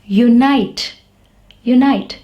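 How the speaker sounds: "unite" opening on yoo, like the letter name; long U sound. Shown as a demonstration. Teacher giving an example of long vowels, long U. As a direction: say "unite" twice, separately, clear yoo. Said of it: "U is pronounced as U in unite".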